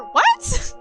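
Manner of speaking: very high, loud yelp of disbelief; shocked "what". Real, not acted. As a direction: shriek it as a stunned question. Shocked at learning voice actor.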